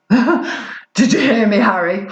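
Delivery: laughing. Acted. Laughing at own dialect attempt.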